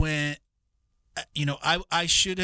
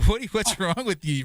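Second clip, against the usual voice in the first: laughing mock scolding; 4 semitones higher than usual. Repeats scolding while laughing.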